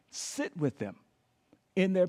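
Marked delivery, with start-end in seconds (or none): 0.1-0.9 whispered. Shown as a demonstration. Preacher showing how to sit with grief, whispered. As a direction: whisper sit with them low.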